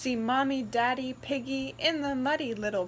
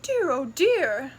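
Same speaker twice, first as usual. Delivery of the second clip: slower, louder fretful sigh; mother pig worrying about the muddy piglet; fretting mother pig; 2 semitones higher, 7 dB louder than usual. Acted. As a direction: dither like a worried mother.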